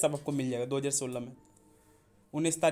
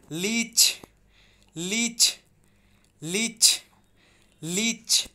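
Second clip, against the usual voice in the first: लीच repeated higher, growing louder; higher drill; 5 semitones higher, 3 dB louder, much slower than usual. Shown as a demonstration. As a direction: call out लीच again and again, higher. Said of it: "pronunciation सही कीजिएगा।".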